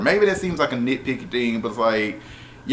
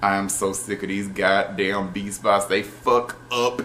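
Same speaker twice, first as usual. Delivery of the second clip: rising mock rant, getting higher toward the end; retold rant; 4 semitones higher than usual. Zoe vents to the Rangers about the Beast Bots, a building mock rant. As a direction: play Zoe fed up and venting, building up. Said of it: "she was just going off".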